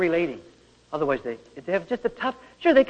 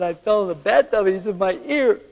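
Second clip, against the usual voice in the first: put-on child's voice; 4 semitones higher, 4 dB louder than usual. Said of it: "He said, "Daddy," he said".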